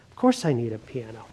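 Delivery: as if it were obviously his own idea; self-assured aside. Acted. Blandings reassuring himself about the piano, quietly certain.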